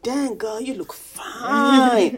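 slow, high self-hyping purr; admiring myself. Retold or imitated. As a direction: hype yourself up in the mirror. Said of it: "I'm like".

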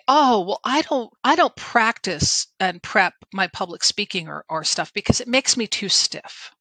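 snooty, dismissive mimicking tone; snotty. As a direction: sneer it like a know-it-all. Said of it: "I'm being snotty in my tone".

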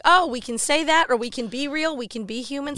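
as if just being let in on it; mock revelation. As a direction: act out a sudden happy realization. Acting out a relieved realization.

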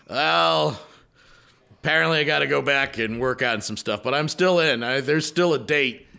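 mock-earnest cult leader, still in; sheepish cult leader. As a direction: shrug it off and stay committed. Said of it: "you're like".

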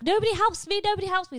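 hammed-up put-upon mother in the kitchen; mum complaining. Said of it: "she'd be like".

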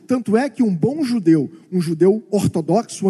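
usual speaking voice

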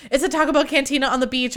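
P=A. Retold or imitated. Excited spotting the cantina.

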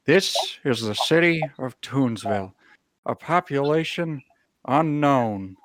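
grand, dramatic announcer voice as a pigeon; pigeon narrator voice. Acted. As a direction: narrate the city like a movie trailer.

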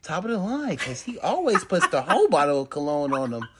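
a hint of a fussing mother; mom voice. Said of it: "she was always like".

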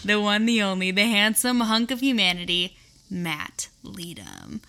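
playful lightly voiced game-show announcer; hype announcer. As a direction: introduce him like a big star, tongue in cheek. Hyping husband as podcast guest.

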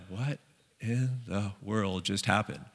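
slow, hushed amazement; awed disbelief. Retold or imitated. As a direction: ask it quietly, stunned. Disciples stunned after storm calms.

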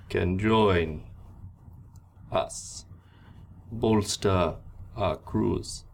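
slow, commanding pirate captain speech; a captain offering the beaten crew a choice; pirate captain addressing prisoners. Acted. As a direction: lay out the terms like a ruthless captain. GM voicing captain to crowd.

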